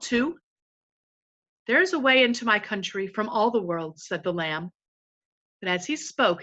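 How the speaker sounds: calm, even read-aloud to a class; story narration. A narrator's reading. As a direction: tell the story steadily to the children. Teacher reads novel aloud.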